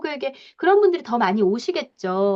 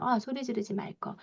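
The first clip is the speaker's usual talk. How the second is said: regretful resolve; 10 dB quieter than usual. Retold or imitated. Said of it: "애가 막 펑펑 울고".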